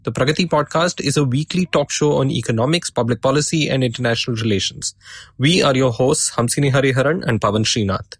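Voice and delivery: sore throat and stuffy nose; talking through a head cold; blocked nose. Real, not acted. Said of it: "I'm recording this with a sore throat and a blocked nose".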